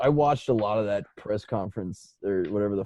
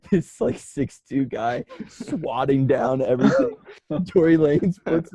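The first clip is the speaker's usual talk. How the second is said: laughing; 4 semitones higher than usual. Real, not acted. Laughing while describing.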